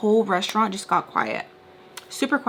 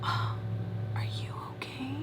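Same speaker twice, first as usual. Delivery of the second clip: hushed, rising mock concern; condescending; 5 semitones higher, 10 dB quieter than usual. Daughter asking her annoyed father, condescending. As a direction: talk down in a near whisper. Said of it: "condescending tone".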